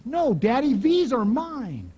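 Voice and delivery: put-on high, possessive kid voice, drawn out on the end; a light sketch of a stubborn child; little boy's voice. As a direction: play the boy clutching his fries. Preacher voices a little boy.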